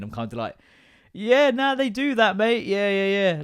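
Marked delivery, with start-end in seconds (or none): 1.1-3.4 much higher, lightly louder know-it-all mate; breezy seasoned dad. Retold or imitated. Telling the new dad it's normal, high breezy mate voice. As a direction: brush it off like an old hand, high and chirpy.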